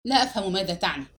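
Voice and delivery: quick, mildly tense denial; understated nervous strain, hurried; nervous tension. A narrator's reading. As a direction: say it fast, with a touch of nerves. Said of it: "وقد اعتبر نبرات صوته ذلك التوتر".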